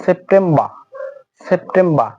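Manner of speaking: সেপ্টেম্বর ending "-temba" without r; r dropped. Shown as a demonstration. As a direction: model সেপ্টেম্বর with no final r. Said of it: "আরটা তারা উচ্চারণ করে না". (আর ছাড়া সেপ্টেম্বর)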